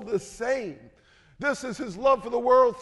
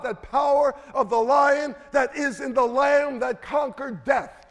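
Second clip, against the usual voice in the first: raised, driving sermon delivery; emphatic preaching; 2 semitones higher, 4 dB louder than usual. Real, not acted. Preacher urging congregation toward the lamb's power, emphatic and forceful. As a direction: preach it with rising conviction.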